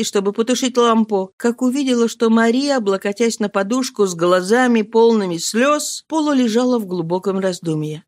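plain reading voice

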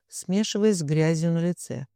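plain reading voice

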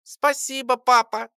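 the little creature thanks her new dad; squeaky thanks. Acted. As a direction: squeak it like a tiny pet. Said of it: "пропищала".

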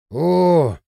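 long, amazed "oh"; plaintive drawn-out groan; plaintive moan. A narrator's reading. Пельмень sees the cow standing up and moans plaintively. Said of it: "жалобно простонал Пельмень".

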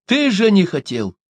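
high, loud, hurt outburst; indignant cry of reproach; offended shout. A narrator's reading. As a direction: yell it out feeling betrayed. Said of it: "с обидой закричал".

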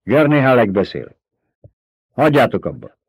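lightly shouted announcement; calling out. A narrator's reading. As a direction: address the fighters from afar. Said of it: "tölcsért csinált a kezéből".

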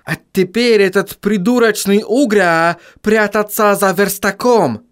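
put-on mild German-accented vampire; lightly voiced German vampire. A narrator's reading. Otto's accented voice.

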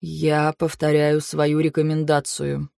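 low, soft, slow and even; very calm. A narrator's reading. Shahrein repeating his recommendation to council, very calm. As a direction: keep it utterly controlled, unhurried. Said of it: "произнёс Шахрейн очень спокойно".

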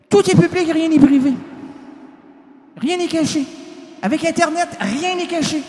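mock solemn declaration; proclaiming. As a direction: announce it like a stern judge. Mock proclamation after saying it plainly.

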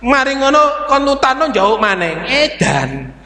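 hammed-up exasperated telling-off; mock scolding. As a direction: start high and indignant, then drop to a grumble. Acts scolding after spilled gas.

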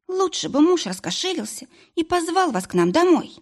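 a hint of a frightened patient; nervous young woman. Mari voiced.

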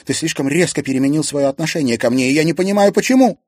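put-on hurt girl building to a near shriek; rising distress. Upset girl pleads with Klim. (всё выше и громче, с обидой)

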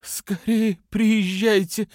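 high, slow, hoarse urgent wheeze; faked wheeze. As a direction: croak the plea as if choking. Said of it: "прохрипела она".

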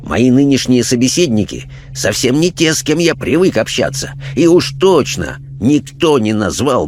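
lightly voiced preachy parson, animated lilt; indignant clergyman. Clergyman instructing his questioners on religion, indignant. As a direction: lecture like an affronted churchman.

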